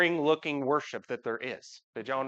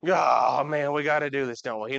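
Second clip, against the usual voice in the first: reluctant groan; 3 semitones lower than usual. Pretend. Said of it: "We serve the Lord how?".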